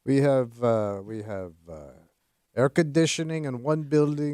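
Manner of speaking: put-on Russian accent. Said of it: "Stop doing the Russian accent".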